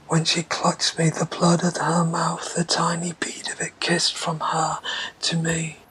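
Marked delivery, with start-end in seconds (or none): 1.1-5.8 whisper. Acted. Recalls bloody kiss.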